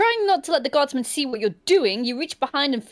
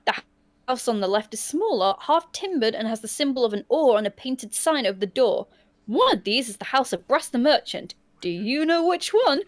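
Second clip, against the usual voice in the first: story narration. A narrator's reading. Reads gamebook scene aloud.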